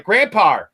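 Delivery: "grandpa" ending in a hard R; added final R. Shown as a demonstration. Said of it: "you add an R anyways".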